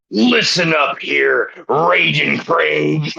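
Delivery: lightly voiced wrestling promo, brother; a hint of Hulk Hogan hyping the crowd; Hulk Hogan style. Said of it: "I'm gonna do this Hulk Hogan style".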